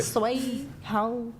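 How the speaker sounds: soft Southern twang on request; Southern accent. Shown as a demonstration. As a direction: show a Southern accent, softly. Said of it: "Come on, that song".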